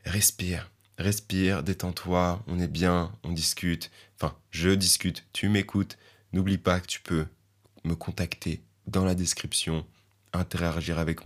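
soft, soothing podcast calm-down voice; a touch of meditation voice. Acted. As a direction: talk them into relaxing, gently. Calming talk over music.

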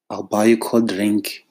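lightly put-on South African township accent, coaxing; a hint of a township accent, buttering up; client's township accent. South African township accent from a client haggling a creative's price. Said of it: "I'm even saying it in that accent".

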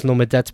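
lomedet with the last syllable stressed, lo-me-DET; wrong final stress. Shown as a demonstration. Showing how not to read it, lomedet stressed on the end. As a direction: shift lomedet's weight to its ending. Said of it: "that doesn't sound right to me".

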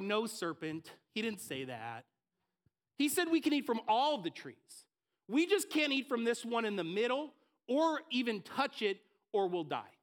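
a light, lightly voiced Eve; Eve's voice. Preacher voicing Eve answering the serpent, lightly voiced. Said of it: "this is Eve's voice that I hear".

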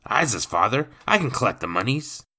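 brash thief pushing his claim; rough cockney rogue. Acted. Rogue to the lawyer, brash cockney.

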